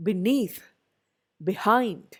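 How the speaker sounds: "Beneath, behind" stressed on NEATH and HIND; be-NEATH, be-HIND, light starts to "Beneath, behind"; second-syllable stress. Shown as a demonstration. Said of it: "These are all stressed on the".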